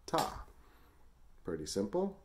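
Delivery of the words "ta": steady, even ta-ka on downbeat and upbeat; counting in twos. Shown as a demonstration. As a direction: chant the syllables evenly like a metronome. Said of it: "ta for the downbeat and ka for the upbeat".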